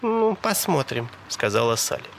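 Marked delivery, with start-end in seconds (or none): 0.0-1.1 high, slow woman's voice; coy, airy reply; noncommittal tease. A narrator's reading. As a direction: draw it out lightly, pitched up. Sally answers his plea coyly.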